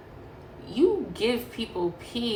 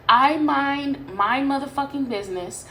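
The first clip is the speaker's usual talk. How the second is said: louder, punchier second take of the line; emphatic repeat; 4 semitones higher, 5 dB louder than usual. Retold or imitated. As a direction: hit it harder the second time, like you mean it.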